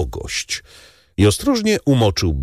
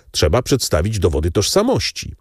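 ordinary delivery

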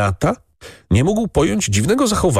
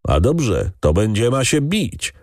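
lightly mocking retort; jeering voices; 4 semitones higher than usual. Servants jeering at the raging count, mildly mocking. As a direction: taunt the count back. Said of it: "rozległy się urągliwe głosy".

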